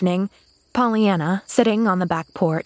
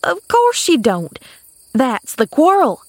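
scornful; 6 semitones higher, 4 dB louder than usual. A narrator's reading. Maid answering a doubting girl, scornful. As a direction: scoff as if it were obvious. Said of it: "gave her a scornful glance".

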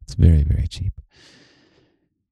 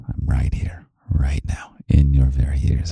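right in your ear. Real, not acted. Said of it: "I'm really here whispering into your ears".

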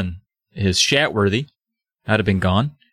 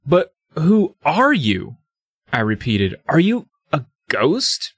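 mock frightened question; 3 semitones higher than usual. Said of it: "my frightened question".

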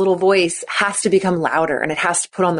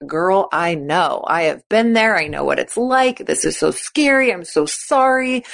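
sympathetic friend. Pretend. Teammates' sympathetic replies.

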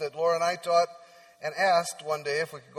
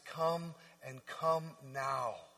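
much softer, very slow; tender invitation; 4 semitones lower, 10 dB quieter, much slower than usual. Acted. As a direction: invite gently, slowly. Voicing Jesus tenderly.

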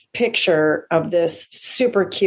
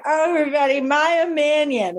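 imitated drunk host; 7 semitones higher than usual. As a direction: lightly mimic a tipsy host announcing a comic. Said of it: "This lady, Jackie, comes up".

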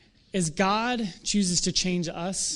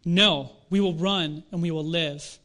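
slow, lightly acted refusal; reluctant soldier, measured and slow; voice from the crowd; slower than usual. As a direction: turn down the fight, slowly. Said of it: "someone in the crowd says".

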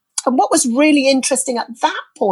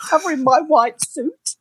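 tearful; 4 semitones higher than usual. Real, not acted. Moved to tears retelling.

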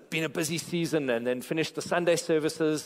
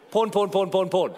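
each porn called out louder, laughing; mock-defiant chant; teasing loud repetition; 4 semitones higher, 5 dB louder than usual. Real, not acted. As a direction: provoke the hushed room playfully. Teasing a quiet congregation.

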